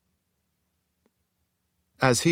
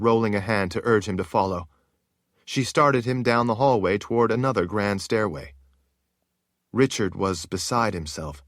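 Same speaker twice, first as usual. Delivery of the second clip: ordinary delivery, nothing marked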